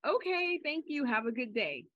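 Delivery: bright high polite reply. Retold or imitated. Retelling own polite reply.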